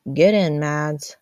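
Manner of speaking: loud, slow call from the car window; calling out slowly. Acted. Husband calling his wife from the car, loud and slow. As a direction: draw it out loud across the field.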